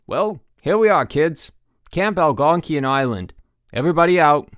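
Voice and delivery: hearty call to pile out. A narrator's reading. Boat driver calls to kids.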